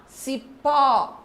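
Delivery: CIPÓ ending in a wide-open Ó; open final O. Shown as a demonstration. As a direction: open the last vowel of CIPÓ like "aw". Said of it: "o som aberto das vogais".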